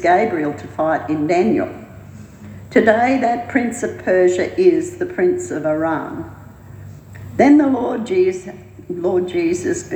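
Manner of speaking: solemn scripture-style read-aloud; reading a prophecy. A narrator's reading. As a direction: read the vision out with measured emphasis. Reads a prophetic vision aloud.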